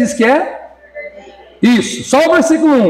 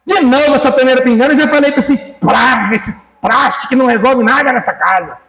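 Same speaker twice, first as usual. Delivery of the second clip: nagging wife; 3 semitones higher than usual. Retold or imitated. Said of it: "Qual mulher que faz isso?".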